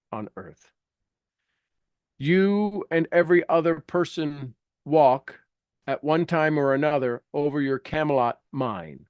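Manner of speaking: measured, earnest reading of a self-help text; reading aloud. Acted. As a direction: read it like an inspiring book passage. Reads aloud from Napoleon Hill.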